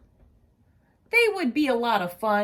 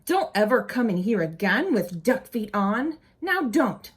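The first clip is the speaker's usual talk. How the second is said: mild mock scolding. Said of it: "She would say".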